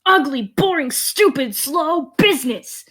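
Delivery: high-pitched, disgusted venting; frustrated rant. Acted. Business boy vents to a stranger at the bar, high frustrated rant. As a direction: spit out each complaint in frustration.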